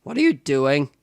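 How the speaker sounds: accidental crack in the voice on a question. Real, not acted. Asking assistant what she is doing, voice cracking. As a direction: voice cracks upward mid-question. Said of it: "Hello, voice crack".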